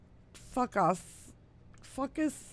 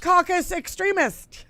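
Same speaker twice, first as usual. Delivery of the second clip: much higher, louder, through laughter; laughing punchline; 10 semitones higher, 7 dB louder than usual. Real, not acted. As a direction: squeal the joke. Laughing at wordplay.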